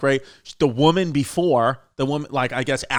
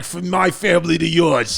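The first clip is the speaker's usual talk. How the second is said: Steve Sciarippa. Retold or imitated. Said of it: "He's like".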